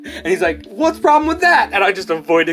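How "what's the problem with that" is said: much higher, louder clueless question; oblivious coworker. Retold or imitated. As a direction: play the oblivious dude.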